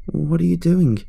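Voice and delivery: put-on a girl questioning in alarm. A narrator's reading. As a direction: ask it high, in disbelief. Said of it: "Gigi asked".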